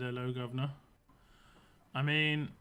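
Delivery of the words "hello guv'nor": lightly put-on Cockney, rising at the end; a jokey hint of a Cockney accent on governor; mock Cockney greeting. Streamer teasing chat about UK stereotypes, mild mock Cockney. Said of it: "if one day I came in and said".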